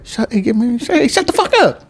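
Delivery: put-on high, cracking old-man yell at his kids; cranky old man yelling. Old man yells at his kids on the phone, high and cracking. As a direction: snap at the kids in a shrill old voice. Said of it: "I'm like".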